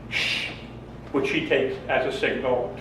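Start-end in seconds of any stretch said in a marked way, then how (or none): 0.1-0.5 soft shush into the phone. Retold or imitated. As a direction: hush the kid quietly. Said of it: "I'm like".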